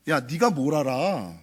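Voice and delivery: slow, scoffing put-down; dismissive. Retold or imitated. Adult dismissing a child's opinion, slow and scoffing. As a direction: scoff at the child as if they know nothing. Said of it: "무시하는 말이죠".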